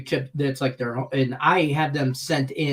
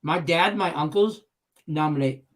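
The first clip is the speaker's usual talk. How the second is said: talking through a mouthful of food; mouth full. Real, not acted. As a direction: speak around a bite of pork rinds. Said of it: "talk with my mouth full".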